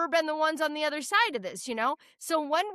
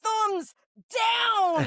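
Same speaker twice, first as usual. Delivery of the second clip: high, drawn-out jeer; mock heckling call, raised pitch; retold heckle; 8 semitones higher, 4 dB louder than usual. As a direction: re-enact booing with the words. Acts out her heckle.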